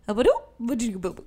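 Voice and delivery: mock-French nonsense syllables, lightly done; Joey's gibberish French. Retelling Joey's French lesson, deadpan gibberish. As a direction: babble as if it were fluent French. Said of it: "absolutely gibberish".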